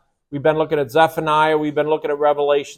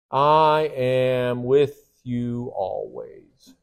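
slow and hushed; 3 semitones lower, much slower than usual. Shown as a demonstration. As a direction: let I am with you always settle gently. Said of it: "and pay attention to this".

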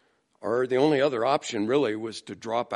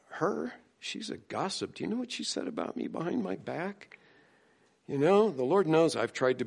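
aggrieved; 6 semitones higher, 4 dB quieter than usual. Retold or imitated. Imitating a church member gossiping.

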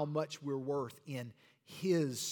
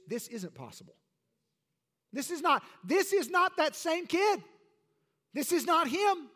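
rising to louder, higher scornful denial; mock rebuke; 10 semitones higher, 4 dB louder than usual. Offended townsfolk rejecting Jesus, a hint of louder scorn. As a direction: scoff at him, don't ask. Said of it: "it was a rebuke".

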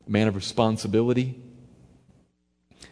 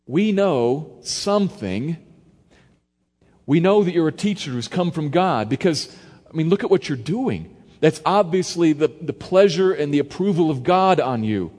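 respectful Pharisee; 4 semitones higher, 4 dB louder than usual. Acted. Nicodemus flattering the young teacher, a bit raised. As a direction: flatter the rabbi with measured respect. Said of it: "spoken kinda like this".

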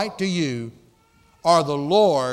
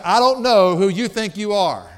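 indignant challenge; 3 semitones higher, 6 dB louder than usual. Acted. Paul confronting the Corinthians.

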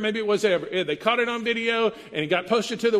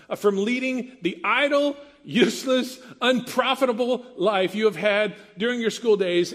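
stern father; 2 semitones higher than usual. Retold or imitated. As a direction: read it like a disappointed father. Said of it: "a dad to a son".

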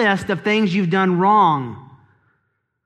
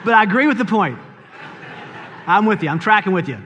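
laughing; faster than usual. Real, not acted. Laughing at a mistimed amen.

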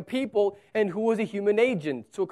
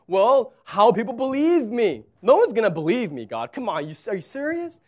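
loud, fast, higher exasperated Moses; Moses objecting; 5 semitones higher, 6 dB louder than usual. Acted. Moses arguing nobody will believe him, loud and exasperated. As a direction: pile on the protest, rushing. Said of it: "he says".

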